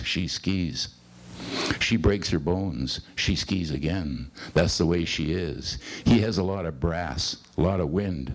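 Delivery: cadenced poem recital with falling line ends; poetry reading. Acted. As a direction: read it as verse, pausing between short phrases. Reads a second poem aloud.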